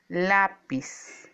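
"lápiz" with a firm, separated first syllable "lá"; stress on first syllable. Shown as a demonstration. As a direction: lean on the "lá" of "lápiz". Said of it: "cuya sílaba tónica es la". ("lápiz" con fuerza en "lá")

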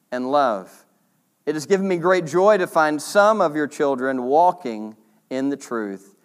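reading the letter aloud, measured; formal Bible reading; scripture reading. Acted. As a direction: read it out like a passage from Scripture. Reads scripture passage aloud.

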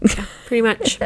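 soft voiceless aside; whisper. Real, not acted. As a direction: keep the whisper going. Still whispering after bit.

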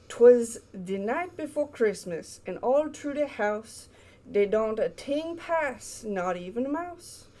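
put-on reading a poem in a Cajun accent; storybook read in a light Cajun accent. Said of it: "with a Cajun accent".

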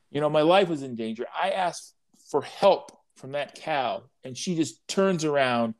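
lightly voiced chick, aggrieved and huffy; whiny chick. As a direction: complain like a put-upon baby bird. Chick complains to fox in parable.

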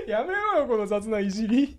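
笑いながら抗議; laughing through the words; laughing protest. Real, not acted. (笑いながら)

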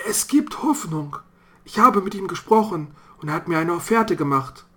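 grim father warning. Acted. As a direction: warn the family of the man outside. Vater continues. (Vater warnt seine Familie, leicht gespielt, eindringlich)

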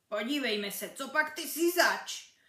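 put-on mild hoarse old ball; hoarse croak. Old cracked ball greeting Janeček, hoarse. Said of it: "zachraptil míč".

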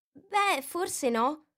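conciliatory. A narrator's reading. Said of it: "con tono conciliante".

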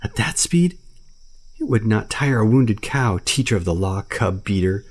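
high, scoffing panther, then steadying; mock the bear, then calm him; scornful panther. Bagheera telling Baloo to stop and think, scoffing panther.

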